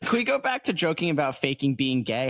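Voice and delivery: high, pleading mock whine; mock scared friend. Friend begging to change the subject, high mock whine. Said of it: "He's like".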